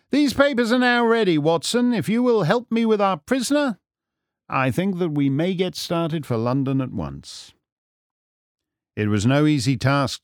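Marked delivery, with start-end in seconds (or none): 0.1-7.5 high, energetic detective voice; raised, theatrical sleuth; brisk, businesslike Holmes. Acted. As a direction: hand out instructions to your companion. Holmes directs Watson.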